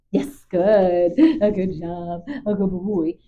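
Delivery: bright, loud praise for the dog; excited dog praise. Real, not acted. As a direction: reward him with a burst of loud praise.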